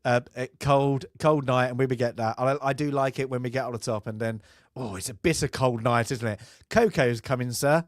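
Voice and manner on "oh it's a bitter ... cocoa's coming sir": posh British officer. Retold or imitated. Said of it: "Like that".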